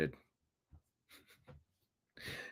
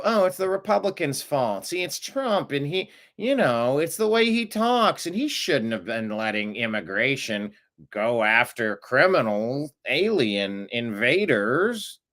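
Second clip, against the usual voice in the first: mock whining; 3 semitones higher than usual. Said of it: "You go".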